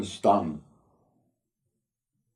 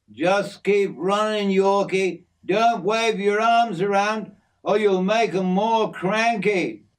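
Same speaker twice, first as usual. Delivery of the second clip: higher-pitched, urgent instruction; urgent urging; 9 semitones higher than usual. A narrator's reading. Jim urging Yorkie to keep running, urgent urging. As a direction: call out advice mid-chase. Mate urges him on during chase.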